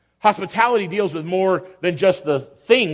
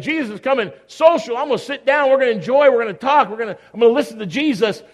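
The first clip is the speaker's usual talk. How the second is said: eager, higher-pitched rush of plans; excited; 4 semitones higher than usual. Acted. Mary looks forward to Jesus visiting, excited. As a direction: play an eager, sociable host.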